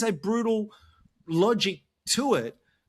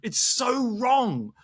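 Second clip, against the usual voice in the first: worked up; 4 semitones higher, 3 dB louder than usual. Real, not acted. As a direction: drag the words out in real frustration. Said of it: "I'm getting worked up".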